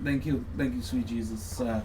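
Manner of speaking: lightly voiced wife thanking heaven; mock Melania sighing with relief; mock relieved wife. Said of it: "Melania's looking over at him like".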